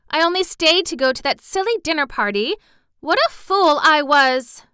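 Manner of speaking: high, loud, anguished self-blame; distressed self-reproach. Acted. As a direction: wail at your own foolishness. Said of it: "she cried".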